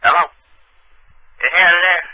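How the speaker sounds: put-on country accent, drawn out; lightly countrified prank caller. Prank caller asking for Harry, country accent. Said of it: "my country ass voice".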